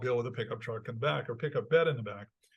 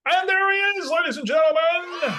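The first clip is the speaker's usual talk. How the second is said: announcer voice; 13 semitones higher, 8 dB louder than usual. Acted. Host introducing guest like announcer.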